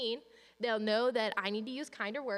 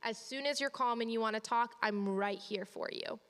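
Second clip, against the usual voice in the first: reassuring. Shown as a demonstration. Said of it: "I sit right outside the door".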